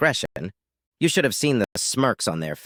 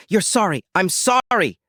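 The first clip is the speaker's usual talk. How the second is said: higher-pitched indignant mock-back shout; 8 semitones higher than usual. A narrator's reading. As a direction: throw the apology back at her in a raised voice. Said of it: "I shouted".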